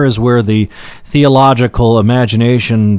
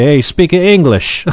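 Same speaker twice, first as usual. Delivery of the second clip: grandfather's gruff call; 5 semitones higher, slower than usual. Retold or imitated. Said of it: "My grandfather used to say".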